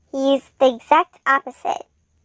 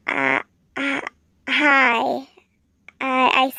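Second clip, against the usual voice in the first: fearful stutter; slower than usual. A narrator's reading. Narrator greets a creepy killer, stuttering from fear. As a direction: hesitate between words, a touch afraid. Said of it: "stuttering from fear".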